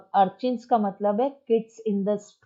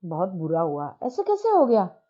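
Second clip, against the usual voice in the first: mock dismay. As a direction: feign shock, then ask. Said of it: "साधु चरण ऐसे देखा".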